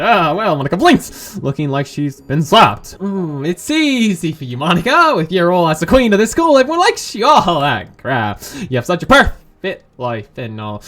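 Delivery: lightly voiced jealous rant; Natsuki, bitter. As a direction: spit out envy at the popular girl.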